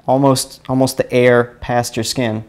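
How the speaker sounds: ordinary delivery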